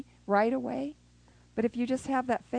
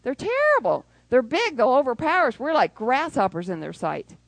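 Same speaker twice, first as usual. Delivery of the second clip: loud, alarmed report; fearful spies; 3 semitones higher, 6 dB louder than usual. Retold or imitated. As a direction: sound panicked about giants. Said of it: "ten of them said it was terrible".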